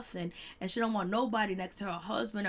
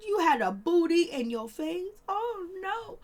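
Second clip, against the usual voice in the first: high, loud mock outrage; hammed-up indignant wife rising to a squeal; wife confronting husband about a lap dance, mock outraged; 9 semitones higher, 5 dB louder than usual.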